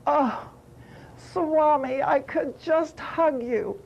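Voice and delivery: mildly overjoyed, recalling the moment; thrilled. Retold or imitated. Devotee greeting her beloved Swami, mildly thrilled. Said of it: "I was so thrilled, excited, happy".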